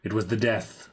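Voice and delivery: dramatic reading. Acted. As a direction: read it like an old curse. Continues journal reading.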